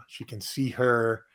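ordinary talk, nothing marked

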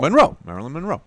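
Monroe with the weight on the final ROE; stress on second syllable. Shown as a demonstration. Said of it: "Emphasis on the second syllable".

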